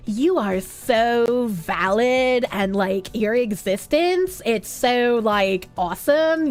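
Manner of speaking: slow, low airy mock affirmation; mock valley-girl positivity. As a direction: parody syrupy positivity. Mocking positivity quote.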